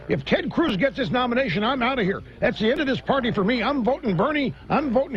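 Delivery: lightly voiced senator owning it; mock defiant senator. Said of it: "stand up and say".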